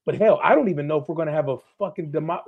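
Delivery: picking up speed as the anger builds; fired up. Real, not acted. Guest on a political show, getting worked up about democracy, fired up. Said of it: "I'm getting all fired up now".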